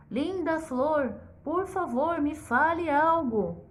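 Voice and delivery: slow sweet coaxing plea; a gently polite little king; coaxing politely. Acted. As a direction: charm her into talking, slowly. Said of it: "todo educado".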